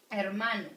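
hermano, every syllable clear; model word. Shown as a demonstration. Teacher to students, modeling hermano clearly. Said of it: "Repeat with me".

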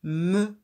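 "Me." said loud and crisp as one joined sound; loud teacher demo of "Me."; blending a syllable. Shown as a demonstration. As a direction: blend "Me." clearly for a beginner reader. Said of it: "qu'est-ce qu'elles font?".

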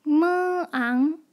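忙 split into a long m, then a rising ang; 忙 sounded out in two parts; sounds blended slowly. Shown as a demonstration. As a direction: hold the m, then add ang to build 忙.

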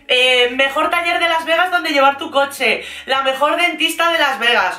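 lifted, singsong ad pitch; lightly voiced influencer plug; mimicking influencer promo. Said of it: "el perfil este de influencer".

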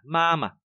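first ma held even, second light; level first ma. Shown as a demonstration. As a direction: keep mama's first syllable flat-toned. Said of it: "đọc đều ngang ra". (ma đầu đọc đều ngang)

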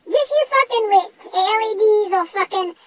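shouted promise of revenge. Acted. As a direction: bark it out as a threat. Threatening the ghost.

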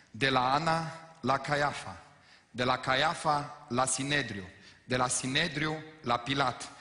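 "De la Ana la Caiafa" and each stop said slowly, one by one; walk them through every station; slow deliberate chain. Shown as a demonstration. Pastor spelling out the corrected saying, slow and weighty. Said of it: "Asta e expresia corectă".

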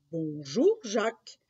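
lightly voiced strange old man's greeting; smiling old man. Strange old man greets Jacques on the road, lightly smiling. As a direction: greet with an audible smile, rising. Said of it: "lui dit-il en souriant".

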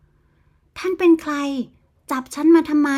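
high, alarmed question to a stranger; a frightened girl demanding answers; panicked. Acted. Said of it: "ด้วยน้ำเสียงตื่นตระหนก". (ตื่นตระหนก เสียงสูง)

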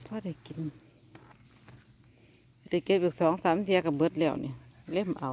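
ordinary talk

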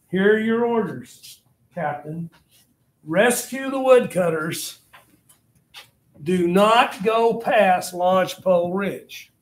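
deliberate, weighted military command; colonel giving orders. Acted. Colonel ordering his captain out on a rescue, firm. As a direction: spell out the order slowly and firmly.

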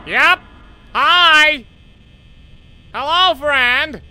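very high, loud fake-cheery greeting; startled shriek. Real, not acted. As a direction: greet the monster in terror. Animatronic appears at door.

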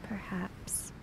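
a bare, voiceless perhaps; grudging whisper. Acted. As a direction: let it hang, unconvinced. Chiaki's grudging reply.

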